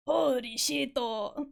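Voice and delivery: put-on Japanese-accented English, rising at the end. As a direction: imitate a Japanese player reacting in surprise. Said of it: "The Japanglish is usually so fucking funny".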